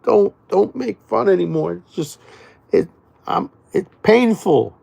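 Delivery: high, pained plea through pretend laughter; breathless pretend laughing-fit protest; mock laugh-pain plea. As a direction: act like laughing hurts too much. Acting out laughing till it hurts.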